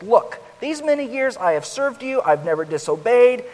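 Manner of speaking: loud, bitter complaint to his father; bitter angry protest. Acted. Older son to his father, loud bitter protest. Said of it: "he responded bitterly and angrily".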